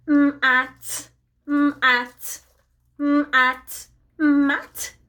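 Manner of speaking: lightly robotic sounding-out, flat and spaced; robot talk. Pretend. Costumed robot gives children a word clue, lightly robotic. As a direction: drone the sounds like a toy robot, only a hint. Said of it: "he can only do his Robotalk".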